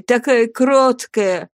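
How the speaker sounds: put-on dying woman remembering the girl; tender lament. A narrator's reading. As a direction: sigh over her meekness. Pitying the girl.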